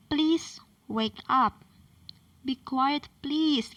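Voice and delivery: slow, gentle polite asking; polite request. Shown as a demonstration. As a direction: ask nicely and slowly, leaning on "please". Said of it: "harus pakai kata yang sopan". (permintaan sopan, pelan dan lembut)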